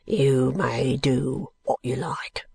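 low, slow, sullen dismissal; morose, heavy, drawn-out words; surly brickmaker. Acted. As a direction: drag it out as if done with the visitor. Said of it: "shutting his eyes with an oath".

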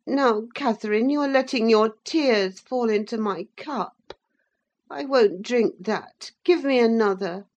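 put-on petulant sickly boy. A narrator's reading. Linton peevishly ordering Nelly away and Catherine about. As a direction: order them about, spoiled.

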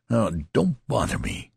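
a hint of desperate menace. A narrator's reading. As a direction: warn him off in desperation. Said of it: "he repeated with desperate menace".

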